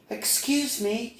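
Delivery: high, slow little bee; a small lost bee politely asking; high-pitched storybook bee voice. Acted. Little Bee speaks to cardinal.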